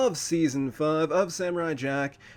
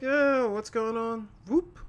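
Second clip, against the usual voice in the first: bored villain; 3 dB quieter, slower than usual. Retold or imitated. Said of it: "just kinda is like".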